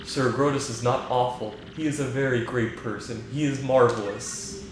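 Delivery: flat, even AI voice like Hal; calm, emotionless machine; monotone computer voice. Acted. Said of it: "just that monotone voice".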